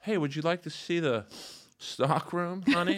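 high, teasing creep invitation; sleazy seductive voice. Pretend. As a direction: lure them in like a creep.

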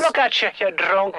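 low, lightly voiced Irish scold; Quibby O'Shane. Old Irish caller accusing a Beatle, scolding. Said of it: "from an old Irish woman named Quibby".

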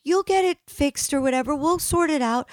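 imitating the plumber's high-pitched reassurance; retold consoling. Plumber telling a crying customer not to worry, consoling.

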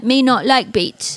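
put-on slow babyish little boy; pouting kid who won't eat. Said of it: "You're like".

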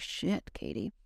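a private self-scolding kept soft; inner voice. Retold or imitated. Therapist scolding herself in her head, softly muttered. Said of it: "And then in my head".

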